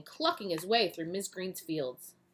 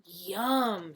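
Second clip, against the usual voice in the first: delighted yum. Acted. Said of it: "he exclaimed".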